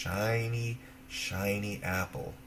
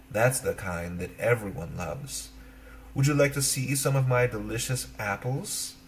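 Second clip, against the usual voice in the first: witch's voice; 4 dB louder than usual. Acted. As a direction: tempt her like a wheedling old witch. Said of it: "the witch said".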